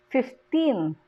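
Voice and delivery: put-on "fifteen" slow, with a drawn-out "teen"; stress on last syllable. Shown as a demonstration. Teacher shows number stress, last syllable of "fifteen" stressed. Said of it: "the stress falls on the last syllable".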